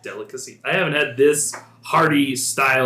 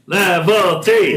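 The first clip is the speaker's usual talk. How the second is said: excited shout; 7 semitones higher, 7 dB louder, much slower than usual. Real, not acted. Reacting to a huge dice roll.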